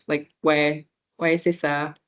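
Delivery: "ouais, c'est ça" tossed off like a native; native French ouais. Shown as a demonstration. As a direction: say "ouais" like "way", casual French yes. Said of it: "makes you sound a little more native".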